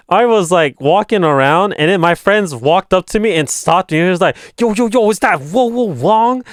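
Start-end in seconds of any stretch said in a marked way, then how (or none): 4.6-6.4 excited mock hail. Retold friend hailing him.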